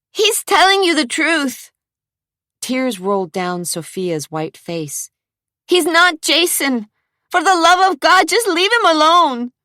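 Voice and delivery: high, loud tearful plea; tearful pleading. Acted. Crying Sophia begs the thugs, high tearful plea. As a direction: beg them through tears.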